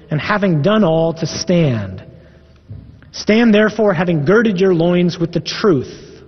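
measured, solemn reading of Scripture; sermon scripture reading. Acted. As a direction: proclaim Paul's words to the congregation. Reading Ephesians aloud.

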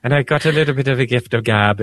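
light put-on Irish lilt; a playful hint of Irish brogue; joking Irish accent for the listeners; mock Irish accent. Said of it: "I shouldn't be doing an Irish accent".

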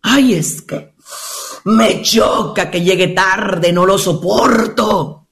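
slow, acted male grumble; lightly voiced exasperated gentleman; complaining husband. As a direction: play the fed-up husband, drawn out.

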